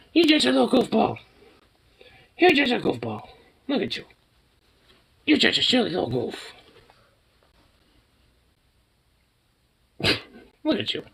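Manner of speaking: very high cooing voice for the dog. Real, not acted. High baby talk to dog.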